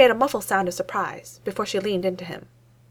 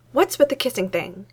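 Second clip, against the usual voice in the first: demanding; 4 semitones higher, 3 dB louder than usual. Acted. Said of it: "she demanded".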